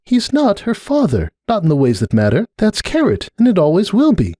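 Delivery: high, stern mare's voice; Cupcake, stern. Acted. Cupcake telling Starlight who Pumpkin's family is, high stern voice. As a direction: lay it down firmly.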